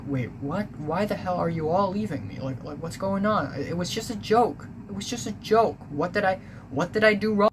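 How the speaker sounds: panicked confusion. Retold or imitated. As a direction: replay the alarm as it climbs, pleading by the end. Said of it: "And I was really concerned".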